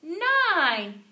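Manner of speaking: high, loud cheering count; shouted count. A narrator's reading. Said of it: "we shouted".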